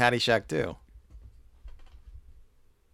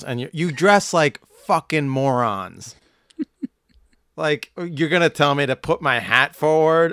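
snarling punk. Acted. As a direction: spit it out like an angry punk. Ranting at golfers.

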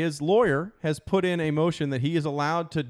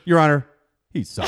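mock lawyer's apology; 5 dB louder than usual. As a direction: call on the judge, pause, drop the pitch. Imitates lawyer apologising to judge.

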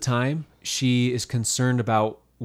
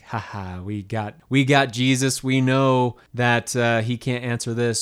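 gloating excitement; 3 dB louder, slower than usual. Retold or imitated. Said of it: "the Pharisees were all super excited".

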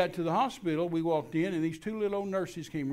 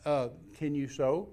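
calm, slow, understated question; real calm. Retold or imitated. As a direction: ask it evenly, retelling your unruffled self. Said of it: "I just real calmly looked at her".

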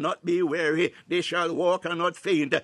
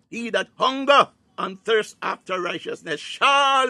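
higher and louder second pass, pressing on "hunger"; building emphasis; 4 semitones higher, 4 dB louder than usual. Real, not acted. Preacher repeating the verse to congregation, louder and higher. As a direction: drive the verse home with rising fervour. Quotes scripture, then repeats it stronger.

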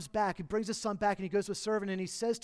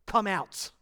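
commanding shout; 2 semitones higher, 6 dB louder, slower than usual. Acted. Jesus calling Lazarus from the tomb, loud command. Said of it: "with a shout and a command".

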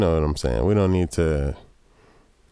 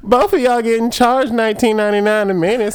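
sexy Southern woman; 5 dB louder than usual. Retold or imitated. Tammy Lynn voiced.

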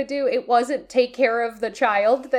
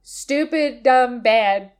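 whisper; slower than usual. Real, not acted. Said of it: "whispered complaint about the plot".

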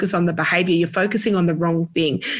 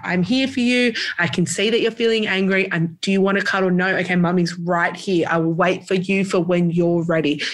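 calm comforting. Shown as a demonstration. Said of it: "doing that".

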